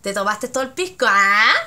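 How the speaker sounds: teasing Chilean friend. Shown as a demonstration. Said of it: "Como diciendo".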